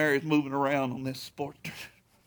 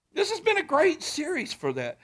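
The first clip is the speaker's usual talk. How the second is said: much higher, "been" stressed with a falling tune; second try; 11 semitones higher than usual. Shown as a demonstration. Preacher repeats his line much higher, stressing "been". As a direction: lift the whole line high and lean on "been". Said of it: "uh, this has been a great series".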